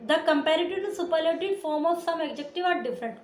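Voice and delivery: slow, deliberate dictation of the rule; textbook reading. Acted. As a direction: read it out slowly for the class to copy. Reads textbook rule aloud. (धीमे-धीमे किताब से पढ़ना)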